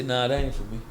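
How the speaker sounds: a lightly voiced stubborn sinner; mock stubborn sinner. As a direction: brush it off low like someone who won't change. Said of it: "They gonna say".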